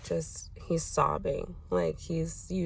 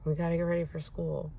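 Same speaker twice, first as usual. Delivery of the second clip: impatient adult brain; 2 semitones lower, faster than usual. Retold or imitated. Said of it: "my adult brain is like".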